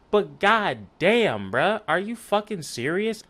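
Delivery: high, loud exasperation, words stretched; really incredulous outburst, pitch jumping up; pissed disbelief. Real, not acted. Fed-up fan challenging the Jazz's incompetence, high angry disbelief. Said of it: "because I'm pissed".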